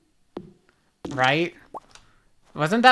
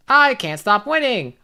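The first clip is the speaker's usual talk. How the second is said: meme catchphrase; 5 semitones higher, 3 dB louder than usual. Retold or imitated.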